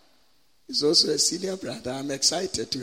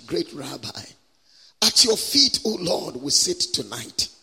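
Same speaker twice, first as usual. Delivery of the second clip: measured prayer swelling to a loud plea, then settling; public prayer; 3 dB louder than usual. Real, not acted. Preacher prays for an encounter tonight, fervent prayer. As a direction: call out to God, then drop on the amen.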